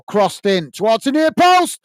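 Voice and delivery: rising, excited match call; excited commentary. Real, not acted. Live call of near chance.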